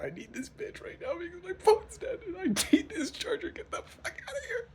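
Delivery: high, loud yelled brush-off; telling a stranger to get lost at five a.m; drunk mock yell. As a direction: shout the guy away like your life depends on it. Acted yelling at random guy.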